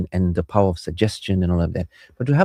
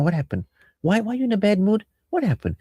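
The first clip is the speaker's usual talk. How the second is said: higher-pitched, caring questions; concerned questioning; 10 semitones higher than usual. Shown as a demonstration. Spouse trying to cheer partner up, concerned questioning. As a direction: ask in a lifted, coaxing voice. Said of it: "your intent is now to make the person feel better".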